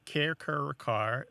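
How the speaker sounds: CARE, CUR, CAR, each vowel distinct; variant first syllables. Shown as a demonstration. Host listing ways the first syllable can be, contrasting vowels. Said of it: "that first syllable can be".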